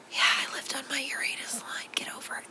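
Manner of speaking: sly whispered aside; mock-secretive whisper. Joking aside about Uranus line.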